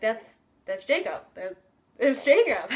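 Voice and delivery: mock-frantic fan outburst; starstruck excitement. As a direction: imitate a fan spotting her idol. Retold friend spotting her idol.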